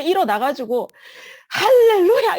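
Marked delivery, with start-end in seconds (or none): 1.5-2.4 high, loud cry of praise; sudden full-voiced exultant shout; shouted hallelujah. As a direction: belt out a hallelujah as a battle cry. Reenacts sudden bold prayer.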